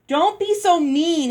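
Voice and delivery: sister's protest climbing up; rising voice. A narrator's reading. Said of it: "her voice rising".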